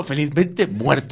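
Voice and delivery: drawn out slowly, savouring every word; slow relish. Acted. Joking about dying happy, stretching the phrase slowly.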